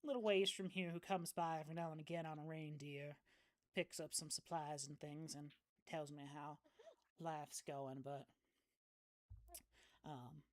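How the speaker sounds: easygoing country neighbour, lightly played; lightly voiced folksy local woman. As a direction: play a friendly backwoods local, understated. Game master voices departing local woman.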